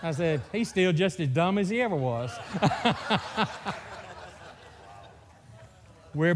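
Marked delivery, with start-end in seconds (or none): 0.5-2.3 chuckling through a teasing line; laughing jab. Real, not acted. Ribbing his brother before the congregation, laughing. 2.4-4.2 hearty real laugh. Real, not acted. Laughing at his joke about his brother, hearty.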